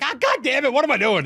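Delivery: high mock groan of regret; Jimmy Butler despair. Podcaster voicing Jimmy Butler after time runs out, mock despair. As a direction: wail at your own blunder, hammed up. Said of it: "Jimmy Butler's like".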